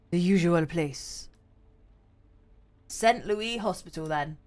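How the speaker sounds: tired detective, lightly voiced; a hint of a cold, worn-out cop; dragging voice. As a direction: let the words drag, weary. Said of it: "His voice drags".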